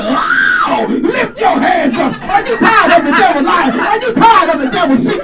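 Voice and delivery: hammed-up TV preacher shouting to lift your hands; screaming preacher. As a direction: wake the congregation like a TV preacher. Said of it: "preachers, you know, screaming like".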